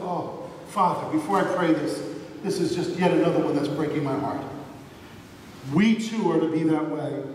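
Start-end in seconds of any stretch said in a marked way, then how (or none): 0.0-4.4 mildly heavy-hearted, sighing prayer; Jesus. Retold or imitated. Jesus praying to his Father, sighing and grieved. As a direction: lightly voice a sorrowful plea, settling lower. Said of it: "And he's sighing".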